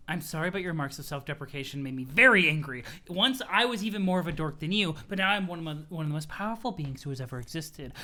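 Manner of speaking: a hint of a strict commander; pompous Jade. Jade scolding Roxy for self-deprecation, mildly stern. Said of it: "pompous voice".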